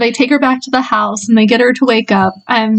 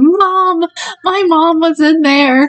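desperate, very drawn-out cry, pitched up and slow; 6 semitones higher than usual. Telling a story, the speaker acts out a delirious woman digging at her buried tent: retelling her frantic yelling. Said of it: "And she's yelling".

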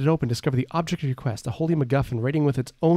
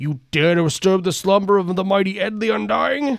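threatening, menacing, pitched-up undead voice; 6 semitones higher than usual. A mummy rises from its sarcophagus to address an intruder, booming Ed the Undying voice. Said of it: "it booms".

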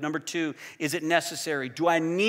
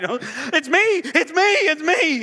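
mock terrified voice, very high and very slow; 12 semitones higher, 8 dB louder than usual. Retelling being frightened by her scary voice, acting out their own terrified cries. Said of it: "I was picking terrified".

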